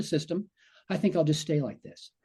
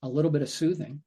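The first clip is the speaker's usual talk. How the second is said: soothing. Shown as a demonstration. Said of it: "we take a different attitude".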